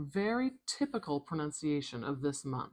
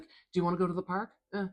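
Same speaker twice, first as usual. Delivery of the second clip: noncommittal; 2 semitones higher, much faster than usual. Acted. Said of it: "It's a nothing sound. It's almost like".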